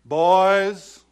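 loud high drawn-out greeting; mom's sing-song call. Retold or imitated. Mother greeting the boys at the door, loud and high. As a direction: call it out like a cheery mom. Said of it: "I hear my mom".

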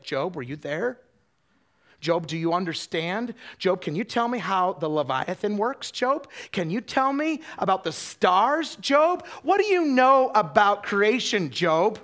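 questions building from conversational to a high, loud shout; mounting divine interrogation, slowing on the key lines; God challenging Job. Acted. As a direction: press each question harder until it booms out.

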